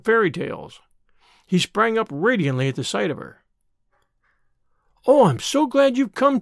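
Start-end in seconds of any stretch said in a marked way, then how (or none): 5.1-6.4 put-on bright, higher child's burst of gladness; eager. A narrator's reading. Boy eagerly greeting his teacher, high and bright. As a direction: lift up eagerly to greet her. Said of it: "he said eagerly".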